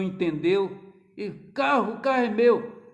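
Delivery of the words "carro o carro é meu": forceful claim. Retold or imitated. Preacher re-voices father.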